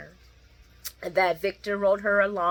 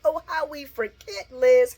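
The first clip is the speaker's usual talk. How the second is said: sarcastic sing-song; 7 semitones higher, 4 dB louder, slower than usual. Real, not acted. Sarcastic jab at Liz.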